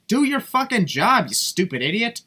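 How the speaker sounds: angry. Real, not acted. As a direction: yell it at the ref. Yelling at the referee.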